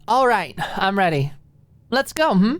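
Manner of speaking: ready to go, coaxing; eager. A narrator's reading. Eager friend heading out.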